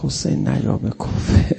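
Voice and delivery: beg, then break into a wail; pleading cry. Retold or imitated. (التماس سوزناک و بلند)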